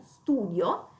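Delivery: STUDIO stressed on the u, drawn out slightly. Shown as a demonstration. Teacher showing where the accent falls, stress on the u of "studio". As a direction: put the accent on the u of "studio", not the i. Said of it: "ma cade sulla U".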